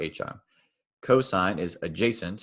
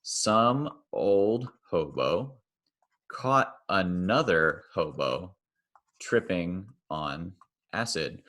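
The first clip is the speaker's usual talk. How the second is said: slow highlighted recital; slower than usual. Shown as a demonstration. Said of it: "highlight those as I go".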